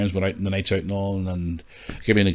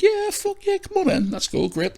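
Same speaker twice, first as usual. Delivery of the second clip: excited. Retold or imitated. His delighted reply.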